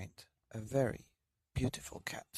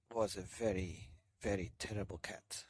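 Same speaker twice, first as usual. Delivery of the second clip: low, softer ominous storyteller; 4 semitones lower, 6 dB quieter than usual. A narrator's reading. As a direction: drop the voice to foreshadow.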